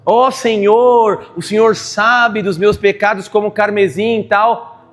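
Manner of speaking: slow, drawn-out pompous opening; mock pious prayer. Pastor mocking a showy prayer to God. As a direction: ham up a flowery prayer. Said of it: "você nem fala assim direito".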